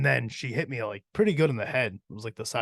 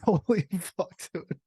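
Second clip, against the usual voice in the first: shocked exclamation; 7 semitones higher, slower than usual. Retold or imitated. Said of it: "I was like".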